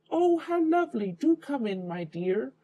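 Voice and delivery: high croaky fake-granny voice; wolf posing as Grandma greets the girl, high croak. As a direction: croak it sweetly in a falsetto. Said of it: "croaked the wolf".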